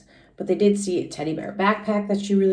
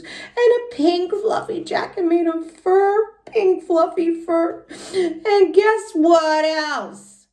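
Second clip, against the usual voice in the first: put-on lively little-girl storytelling voice, pitched higher; Junie B. read aloud; 6 semitones higher, 4 dB louder than usual. Teacher reading Junie B. to the class in a high kid voice. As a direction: read it as an excited first-grader telling her story.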